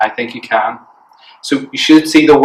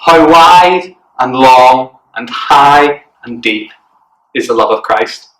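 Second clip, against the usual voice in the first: slow, spaced-out chant; deliberate verse for children to copy; memory verse recital; slower than usual. Shown as a demonstration. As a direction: recite it slowly, big stress on each measure. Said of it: "and it goes like".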